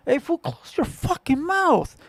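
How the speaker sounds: blunt order to a friend chewing open-mouthed; blunt version. Shown as a demonstration. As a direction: tell him straight out, no sugar. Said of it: "That's the type of person that I am".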